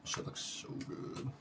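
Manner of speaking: soft whispered awe; whispering. Real, not acted. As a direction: breathe it out slowly, no voice. Admiring food while eating.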